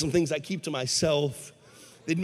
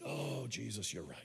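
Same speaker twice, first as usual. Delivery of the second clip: sheepish concession; 7 semitones lower, 15 dB quieter than usual. Acted. Acted man sheepishly giving in.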